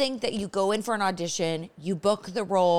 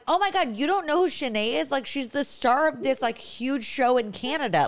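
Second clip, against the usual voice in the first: indignant fan; 6 semitones higher than usual. Retold or imitated. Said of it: "I was like".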